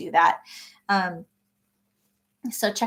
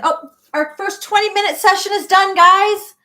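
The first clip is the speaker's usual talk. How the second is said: loud, high announcement to the group; calling out; 10 semitones higher, 8 dB louder than usual. Real, not acted. Host telling everyone the first session is done, calling out. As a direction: break off and call out brightly, much higher and louder. Timer ends, calls out to group.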